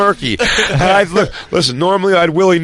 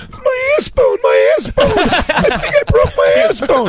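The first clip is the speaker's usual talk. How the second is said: high crying wail about a broken tailbone; whiny pained wail; slower than usual. Retold or imitated. Friend mimics the actor who fell, in a high crying wail. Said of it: "He goes".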